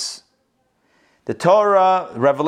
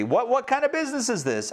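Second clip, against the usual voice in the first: higher, mock-indignant question; sarcastic; 7 semitones higher, 3 dB quieter than usual. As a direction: scoff at it sarcastically. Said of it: "We say sarcastically".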